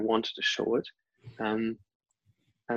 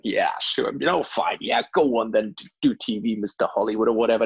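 teasing, dismissive go-ahead; mocking amusement. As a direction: imitate a boss having fun at your expense. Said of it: "having a fun time".

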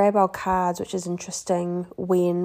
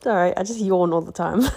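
laughing. Real, not acted. Laughing off a yawn.

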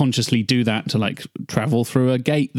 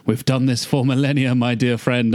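campy Shakespearean. Acted. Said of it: "campy Shakespearean stuff".

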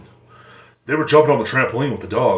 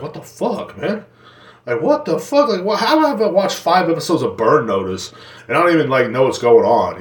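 disbelieving; 4 semitones higher than usual. Retold or imitated. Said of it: "you're like".

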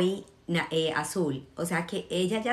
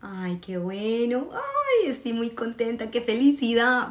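delighted; 5 semitones higher than usual. Real, not acted. Delighted at students' colors.

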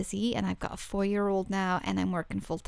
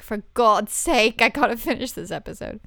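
exasperated outburst; 7 dB louder than usual. Retold or imitated. Retold own exasperated outburst.

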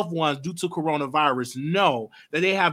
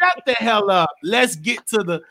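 imagined stern moderator; 4 semitones higher, 4 dB louder than usual. Retold or imitated. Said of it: "a moderator that's gonna say".

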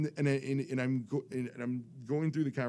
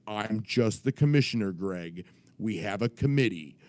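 lightly voiced official; a hint of officious insistence; authoritative commissioner. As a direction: imitate a firm league commissioner. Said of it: "I'm doing his voice".

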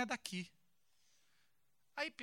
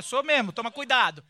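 pulling rank; 10 dB louder than usual. Pretend. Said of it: "Dá uma carteirada".

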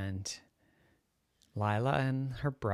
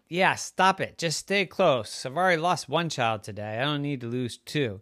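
scolding mommy; 4 semitones higher, 4 dB louder than usual. Acted. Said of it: "Mommy said".

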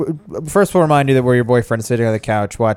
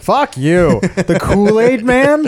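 outraged disbelief; 9 semitones higher, 3 dB louder, much slower than usual. Real, not acted. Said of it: "friend mocked his red shirt".

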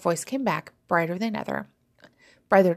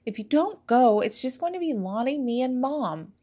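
coaxing sister; 5 semitones higher than usual. A narrator's reading. Sister coaxing Fizzy to attend.

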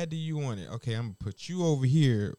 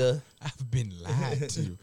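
slow, stretched mock lament with a laugh; drawn-out lament; 2 semitones lower, much slower than usual. Chef repeating the punchline, slow mock lament. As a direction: drag every word out for the joke.

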